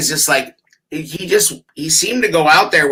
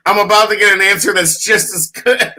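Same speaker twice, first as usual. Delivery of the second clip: laughing through an imitation; mock boast with a laugh; laughing mock quote; 3 semitones higher than usual. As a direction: giggle while quoting. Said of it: "he's basically like".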